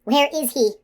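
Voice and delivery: high, loud, urgent question; demanding. A narrator's reading. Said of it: "she demanded".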